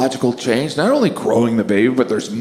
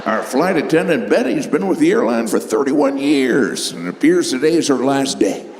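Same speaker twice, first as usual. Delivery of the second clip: pilot on intercom. Retold or imitated. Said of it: "Maybe the pilot came over the intercom".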